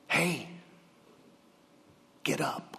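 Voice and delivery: soft, half-whispered wake-up; hushed urging. Acted. Jesus gently urging the young man to rise, soft and hushed. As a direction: coax him up in a hush.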